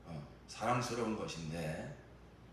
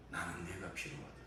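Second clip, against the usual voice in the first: soft repetition; 2 semitones lower, 7 dB quieter than usual. Acted. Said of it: "주님은 이렇게 대답하실 것입니다".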